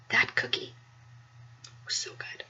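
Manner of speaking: unvoiced, awed whisper; reverent whisper. Real, not acted. Alita remembering the cookie in an awed whisper. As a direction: hush it like a treasured memory. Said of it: "savoring the cookie".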